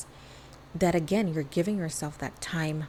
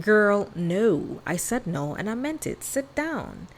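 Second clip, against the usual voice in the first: sassy scolding body voice, a bit higher; the body telling her to sit down, sassy and firm; 3 semitones higher, slower than usual. Retold or imitated. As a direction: scold like a no-nonsense friend. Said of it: "your body's like".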